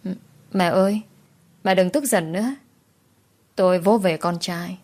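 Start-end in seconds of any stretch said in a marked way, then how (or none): 0.0-2.5 put-on timid little boy, softly spoken; lightly voiced small child; child's soft voice. Little son soothes his angry mother, lightly childlike. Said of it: "thỏ thẻ nói".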